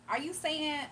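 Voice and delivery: Southern country drawl, put on lightly; country accent. Shown as a demonstration. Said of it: "I'm trying to talk, like, in a country accent".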